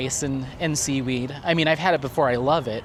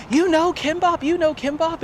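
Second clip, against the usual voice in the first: high, delighted imitation of the older lady; excited Korean lady; 13 semitones higher than usual. Korean lady thrilled the narrator knows kimbap, high excited imitation. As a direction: squeal it up high like she's thrilled he knows the dish. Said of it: "she got all excited".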